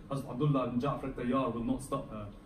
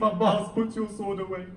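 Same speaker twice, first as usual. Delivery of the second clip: raised, firm order to stop; firm command; 5 semitones higher, 6 dB louder than usual. Acted. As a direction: hold him back with a firm raised voice. Hussein restrains Abbas.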